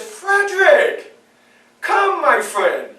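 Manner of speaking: slow, drawn-out friendly call from a lightly voiced master; slow, falsely friendly master; sweet-talking master. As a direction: coax him in, slowly, with mock kindness. Master suddenly friendly to slave.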